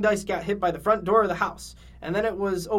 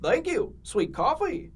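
Goofy voice; 7 semitones higher, slower than usual. Acted. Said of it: "the Goofy voice works for Mugman".

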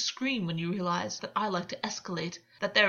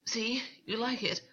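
breathless, gasping a little higher; gasped; 3 semitones higher than usual. A narrator's reading. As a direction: catch the breath through the words. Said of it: "August gasped".

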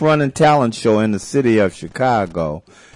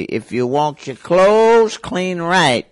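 granny voice; 3 semitones higher, slower than usual. Retold or imitated. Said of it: "Granny told me to say".

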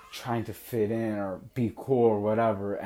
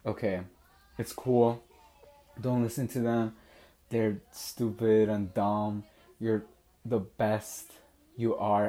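reassuring. Retold or imitated. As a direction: console her gently, pausing between phrases. Retold consoling of crying girlfriend.

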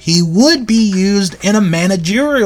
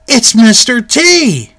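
drawn-out, higher announcement of the surprise; excited reveal; 5 semitones higher, 4 dB louder, slower than usual. Real, not acted. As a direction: reveal the mystery guest with excitement. Reveals surprise fan identity.

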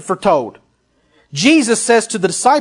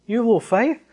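rising, incredulous echo of a scolding; questioning disbelief; 3 semitones higher, 4 dB quieter, faster than usual. Retold or imitated. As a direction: question the rebuke, lightly puzzled. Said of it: "Now wait a second".

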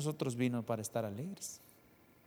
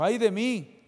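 cry of woe; 8 semitones higher, 7 dB louder than usual. Retold or imitated. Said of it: "gritó y dijo".

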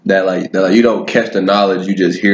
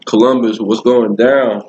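talking around candy; words muffled by a mouthful; mouth full; 2 semitones higher, slower than usual. Real, not acted. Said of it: "Sorry, I'm a little muffled".

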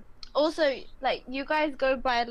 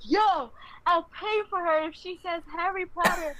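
kitchen guy calling out; 4 semitones higher than usual. Retold or imitated. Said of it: "this guy in the kitchen from the back was like".

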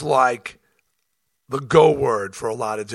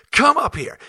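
calling out; 13 semitones higher, 5 dB louder than usual. Retold or imitated. Challenging heckler to come on stage.

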